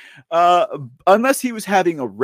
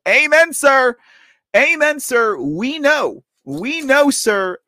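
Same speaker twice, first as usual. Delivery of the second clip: emphatic amen; 7 semitones higher, slower than usual. Real, not acted. Emphatic agreement with the post.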